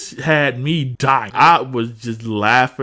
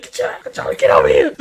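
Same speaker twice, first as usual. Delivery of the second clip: angry chase; 10 semitones lower, 5 dB louder, faster than usual. Retold or imitated. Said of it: "Like, like".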